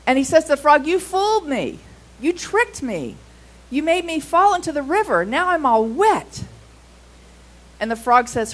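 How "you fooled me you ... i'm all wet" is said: higher, indignant complaint, lightly voiced; a touch of wet, cheated outrage; mildly furious mouse. Soaked mouse scolding the frog, mildly angry. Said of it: "the mouse is still furious".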